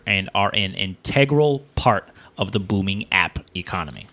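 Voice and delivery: measured, formal read-aloud; reading a statement aloud. Acted. Host reads console makers' statement to co-host, measured read-aloud. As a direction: read out an official written statement.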